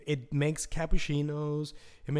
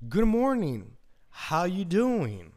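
friendly greeting; 3 semitones higher, much slower than usual. Shown as a demonstration. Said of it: "say something nice".

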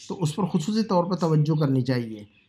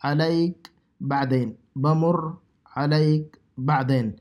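slow model phrase; slower than usual. Shown as a demonstration. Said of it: "اس کے بعد کا جو جملہ ہے".

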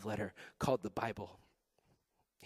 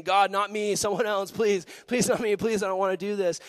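mock pleading; 7 semitones higher, 7 dB louder than usual. Retold pleading with God.

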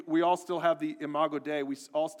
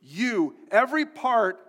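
rising, louder, higher pulpit build; preaching at full force; 5 semitones higher, 4 dB louder, slower than usual. Acted. Pastor pressing the congregation about sin, building preach. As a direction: drive it home harder with each line.

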